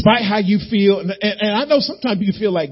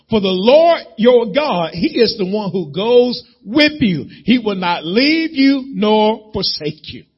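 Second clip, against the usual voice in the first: slow, raised preaching read of the verse; scripture read aloud; 5 semitones higher than usual. Acted. Preacher to his church, proclaiming scripture slowly. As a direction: proclaim the promise to the congregation.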